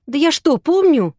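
put-on girl snapping at the detective; exasperated outburst. A narrator's reading. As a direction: she snaps, fed up. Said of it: "не выдержала Юля".

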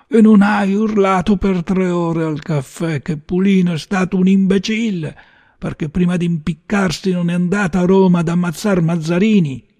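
high, heated tirade; indignant, high-pitched rant; angry accusation. Acted. Gunman berates his cornered target.

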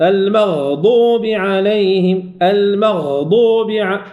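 المغضوب slow, the غ drawn out; held غين. Shown as a demonstration. Teacher modelling the long غ in المغضوب. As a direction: stretch the غ in المغضوب. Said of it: "زمن أطول حالة السكون".

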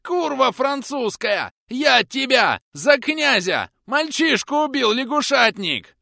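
very high, loud raging tirade; furious yelling. Acted. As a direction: scream abuse, enraged. Rotmistr raging, feigning fury.

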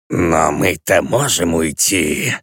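slow, low, unbothered; indifferent sated demon; calm indifference. Acted. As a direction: say it lazily, not caring. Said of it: "равнодушным и спокойным".

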